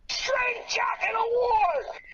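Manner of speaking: slow, drawn-out announcer shout; shouted announcement. Pretend. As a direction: belt out the award name. Announcing the award.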